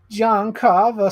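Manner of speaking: slow, loud, high name reveal; dramatic announcement. Acted. Vlogger announcing the killer's name as he shows the figure. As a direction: drag the name out like a trailer voice.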